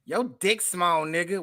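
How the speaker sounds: lightly voiced Riley-style taunt; a hint of Riley in the voice; Riley impression. Friend teasing about a breakup, lightly in Riley's manner. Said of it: "say it like Riley".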